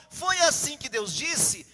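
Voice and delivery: slow, emphatic questioning of a rule; lightly voiced serpent, spelling out each phrase; insinuating serpent. Serpent twisting God's order to Eve, slow insinuation. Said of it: "O que que a serpente disse, insinuou?".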